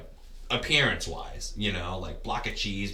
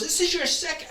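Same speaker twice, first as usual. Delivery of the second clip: much higher and louder, incredulous; amazed; 8 dB louder than usual. Retold or imitated. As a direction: imitate the stunned runner at full pitch. Runner amazed he's doing ultra.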